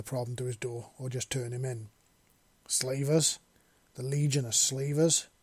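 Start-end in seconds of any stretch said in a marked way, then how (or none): 2.7-5.3 growled. Acted. Seven growls in anger at the news of slavers. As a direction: growl it in disbelief. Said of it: "Seven growled".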